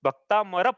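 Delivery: भक्तामर with the k joined tightly to the t; demonstrated pronunciation. Shown as a demonstration. Teacher showing the difference, joined भक्तामर. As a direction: join k and t in भक्तामर. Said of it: "क्या अंतर है?".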